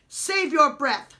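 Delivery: loud, slow, snapped retort; Jemmy snapping at the prince. A narrator's reading. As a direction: snap at him to stop. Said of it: "snapped Jemmy".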